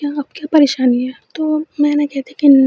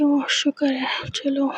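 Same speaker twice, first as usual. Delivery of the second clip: relieved mutter; 7 dB quieter than usual. Acted. Relieved under breath.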